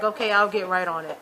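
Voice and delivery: imitating an uninterested okay; listless, going through the motions; unenthusiastic. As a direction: agree with no enthusiasm at all. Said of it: "Just all unenthusiasm, like, nothing".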